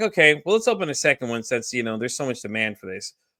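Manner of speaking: ordinary talk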